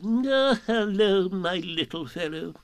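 high, kindly owl voice softening. A narrator's reading. Owl greeting little Roo, kindly. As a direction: pat him on the head with your voice. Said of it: "in a kindly way".

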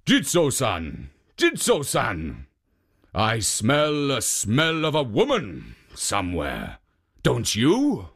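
lightly voiced sniffing ogre; mildly voiced suspicious ogre; suspicious ogre calling. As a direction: call out like an ogre smelling prey. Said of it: "cried out".

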